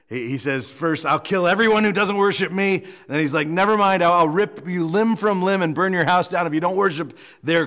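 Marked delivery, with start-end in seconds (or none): 0.7-2.8 mock royal threat, raised and higher; threatening king. King threatening everyone who won't worship, hammed-up command. 3.5-7.7 hurried about-face, raised mock threat; blustering king. King switching gods while still threatening, mock bluster. King's comic change of tune.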